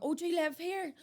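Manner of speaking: high, pointed question like a snooty neighbour; lightly voiced snooty neighbour; mock prim neighbour. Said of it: "and you're like".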